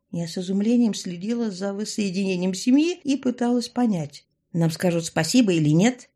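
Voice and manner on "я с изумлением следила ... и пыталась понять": ordinary delivery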